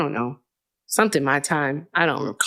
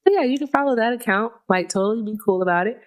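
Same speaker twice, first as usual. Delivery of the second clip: higher, faster put-on valley girl voice; odd put-on voice; 3 semitones higher, faster than usual. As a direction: breeze through it in a silly high voice. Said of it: "I don't know why I'm talking like this".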